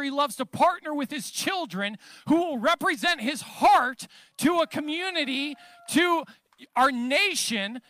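emphatic preaching. Real, not acted. Preacher urging congregation to declare life, emphatic preaching. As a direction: preach it with rising conviction.

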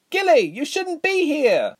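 high, drawn-out cry of alarm; urgent cry. A narrator's reading. Reshma warning Gilly mid-battle, high urgent cry. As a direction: call out urgently over battle noise. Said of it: "cried over the noise of battle".

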